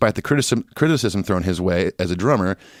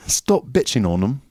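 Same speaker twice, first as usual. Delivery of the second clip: put-on slow, higher British accent echo; mock British accent; 4 semitones higher, slower than usual.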